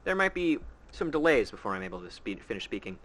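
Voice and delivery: talking while munching chips; words around mouthfuls of chips; eating chips. Real, not acted. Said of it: "I'm eating chips at the same time".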